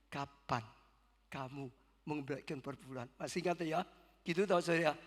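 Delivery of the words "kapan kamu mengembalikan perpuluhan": soft, lower, calm question; quiet divine question. Retold or imitated. God calmly and softly questioning the pastor about tithes. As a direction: ask it gently and quietly, almost aside.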